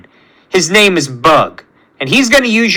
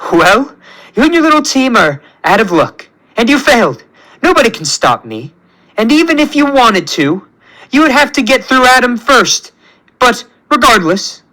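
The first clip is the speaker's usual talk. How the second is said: higher-pitched, lightly taunting villain; lightly mocking villain; 6 semitones higher than usual. A narrator's reading. Villain dismissing Peter's little team, lightly mocking. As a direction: gloat with a lifted, theatrical voice. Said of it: "He laughs and turns to Peter and says".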